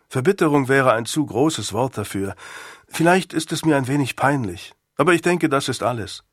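a hint of a boy playing it down; lightly voiced schoolboy, candid. Boy plays down shame to Sir Thomas, lightly voiced candour. Boy Nick's dialogue in story.

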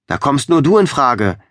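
lightly acted shout from the back of a hall; calling from the back. A narrator's reading. Someone at the back of the hall nominating Amber, calling out. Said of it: "aus dem hinteren Teil des Saals vernehmen".

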